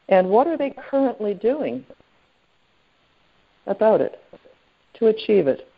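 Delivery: deliberate, with long pauses between phrases; measured dictation, leaving time to write; slowly. Shown as a demonstration. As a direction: spell out each question for note-takers. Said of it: "I'm gonna say them again slowly".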